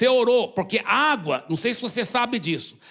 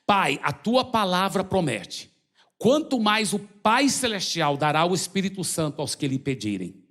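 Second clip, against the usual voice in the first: leading prayer. Acted. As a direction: pray it line by line so they can follow. Leads baptism prayer.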